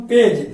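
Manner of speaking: पेज said loud, ending on a j sound; soft G. Shown as a demonstration. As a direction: read पेज with G as ज. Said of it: "क्या इसको पढ़ेंगे हम".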